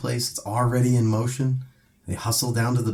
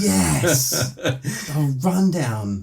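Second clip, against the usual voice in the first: excited; 7 semitones higher, 4 dB louder, much slower than usual. Real, not acted. Hearing a favourite movie named.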